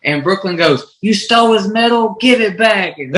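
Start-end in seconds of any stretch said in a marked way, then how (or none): 1.0-3.0 put-on high-pitched little girl voice, pushing pretty hard; little daughter's voice. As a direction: play his young daughter telling Kane off. Dad voicing his young daughter.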